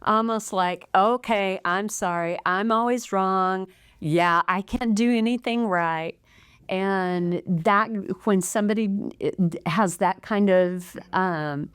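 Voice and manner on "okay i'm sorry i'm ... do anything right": mildly sarcastic, grudging sorry; a hint of eye-rolling sarcasm in the apology. Wife showing husband a sarcastic tone of apology. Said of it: "it's the tone that you used".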